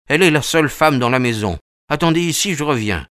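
a lightly voiced, hurried nervous man; nervous Thaddeus. Thaddeus tells his guests to wait while he checks, hurried and nervous. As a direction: rush it, anxious to get back inside.

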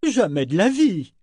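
high, emphatic denial; retort. A narrator's reading. Ronica refuses to believe in bandits, retorting emphatically. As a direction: swoop up in scornful disbelief. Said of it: "rétorqua Ronica".

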